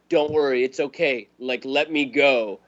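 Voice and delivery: calm, at-peace goodbye, a little mocking; mock serene farewell.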